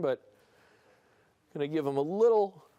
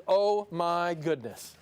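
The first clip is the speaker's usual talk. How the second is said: mock amazement; much slower than usual. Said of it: "that O means".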